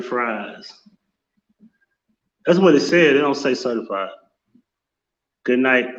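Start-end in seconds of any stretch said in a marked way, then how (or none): none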